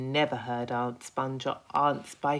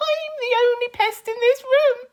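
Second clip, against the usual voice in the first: much higher, loud proud boast; grinning pest; 13 dB louder than usual. Acted. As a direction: announce it with a broad grin. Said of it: "cried the Centipede, grinning".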